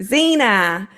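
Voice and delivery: put-on playful Kiwi-accented shout-out; imitated New Zealand accent. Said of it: "adorable little New Zealand accents saying".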